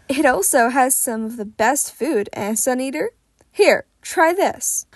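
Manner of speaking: booming, friendly mentor; jovial big hero. Acted. Fat Gum's voice in dialogue.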